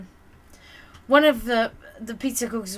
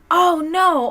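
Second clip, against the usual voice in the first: high startled oh no, mock dismay; imitating coworker's gasp; 7 semitones higher, 8 dB louder than usual. Coworker Brittany reacting to broken plate, mock dismay. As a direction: play the startled coworker, higher and louder.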